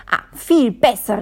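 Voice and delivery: loud delighted call. Acted. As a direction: call it out with relief. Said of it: "rief Mister Quatschkopf".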